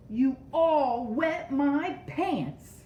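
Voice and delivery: high, loud, slow outburst; angry exclaiming. Acted. Reuben blaming all his friends, loud angry exclaim. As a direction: blame them all in one big cry. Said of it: "So he is exclaiming".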